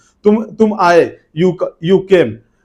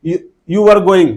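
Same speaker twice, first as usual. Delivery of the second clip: very slow, careful English, word by word; slow model sentence; 4 dB louder, much slower than usual. Shown as a demonstration. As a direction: drag it out slowly for the class. (बहुत धीरे-धीरे बोलकर)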